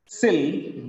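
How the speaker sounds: "Sil" as the second syllable of pencil, alone. Shown as a demonstration. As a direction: sound out "Sil" on its own. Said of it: "It has two syllables".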